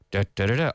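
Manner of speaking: even, low "Da, da, da, da" with a lift at the end; affirmative rhythm. Shown as a demonstration. Teacher hums the pattern, affirmative rhythm. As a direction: beat out "Da, da, da, da" without an early stress.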